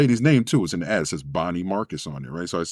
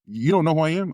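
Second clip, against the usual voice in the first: lady on phone; 8 semitones higher than usual. Retold or imitated. Famous lady voiced on phone.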